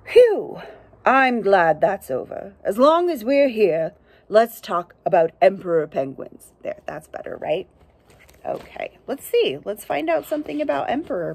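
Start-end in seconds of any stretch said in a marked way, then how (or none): 0.0-6.5 a lightly voiced steady narrator. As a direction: read it like a proper documentary narrator. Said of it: "supposed to be the narrator voice".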